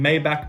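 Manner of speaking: "Maybach" as MAY-back; hard K ending. Shown as a demonstration. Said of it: "I kinda change between".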